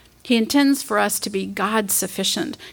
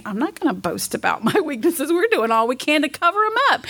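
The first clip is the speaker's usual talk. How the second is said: quick, higher, laughing perfectionist protest; mock perfectionist; 4 semitones higher, faster than usual. Preacher mocks her inner perfectionist, fast and laughing. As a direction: play your inner perfectionist, half-laughing. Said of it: "the little Miss Perfectionist in me".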